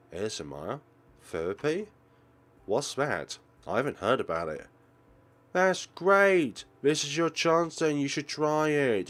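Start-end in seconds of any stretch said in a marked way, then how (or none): 5.5-9.1 bursting with delight, much louder and higher; excited. Acted. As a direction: cheer her on eagerly. Friend thrilled ASMR could help.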